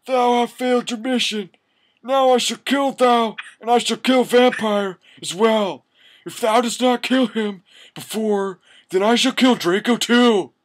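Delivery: high, strained villain rasp; evil raspy voice. Acted. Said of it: "said evilly in his raspy voice".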